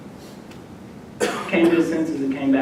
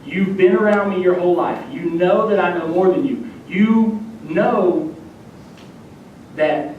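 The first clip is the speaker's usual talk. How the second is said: imagined scolding father; 3 semitones higher than usual. Acted. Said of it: "I thought my dad would act that way".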